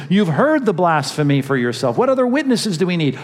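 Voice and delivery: mock outrage climbing up in pitch. High priest tearing his robes.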